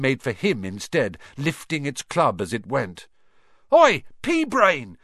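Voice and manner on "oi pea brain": high, loud, slow jeering shout; taunting yell. Acted. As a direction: bait the troll across the room. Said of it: "yelled Ron".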